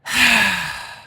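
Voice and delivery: long resigned sigh; drawn-out sigh of resignation; heavy sigh. A narrator's reading. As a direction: give up with a heavy exhale. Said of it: "breathed a heavy sigh of resignation".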